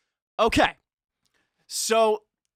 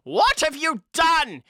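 mock stern; 11 semitones higher, slower than usual. Reading Dumbledore's angry line.

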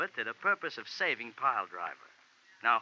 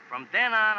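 sudden anger; 7 semitones higher, 7 dB louder than usual. Acted. Nettie vows revenge on the colonel.

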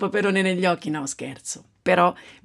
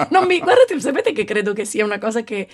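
laughing; 5 semitones higher than usual. Real, not acted. Laughing at a joke.

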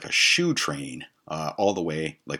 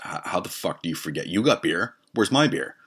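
angry; 3 semitones higher, 3 dB louder than usual. Retold or imitated. Retold argument over missing beer.

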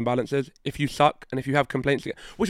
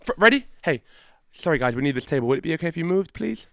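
polite request. Shown as a demonstration. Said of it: "Say, like".

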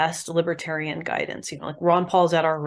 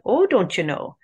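put-on Minnesota accent; 4 semitones higher, 4 dB louder than usual. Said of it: "on their, their Minnesota accent".

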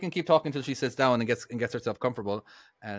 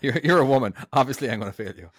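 laughing mockery; 3 dB louder than usual. Mocking sexist examiner, laughing.

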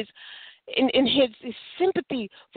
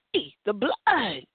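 wake-up call; 3 semitones lower, slower than usual. Acted. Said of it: "make us wake up and say".

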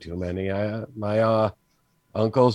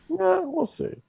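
laughing; 4 dB quieter, slower than usual. Real, not acted. Laughing about picking an accent.

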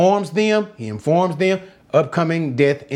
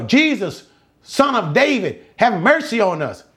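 higher-pitched preacher's cry; 4 semitones higher than usual. Acted. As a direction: call out to Jesus for mercy. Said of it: "They cried".

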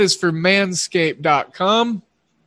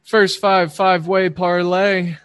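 quick run at a tongue twister; quicker tongue twister; 3 dB louder than usual. Shown as a demonstration. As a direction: rattle it off a bit faster. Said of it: "Say that five times fast".

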